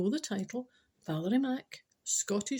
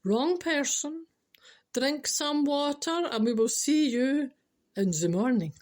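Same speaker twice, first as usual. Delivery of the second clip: slow stern boss; 4 semitones higher, 4 dB louder, slower than usual. Acted. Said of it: "And the boss replied".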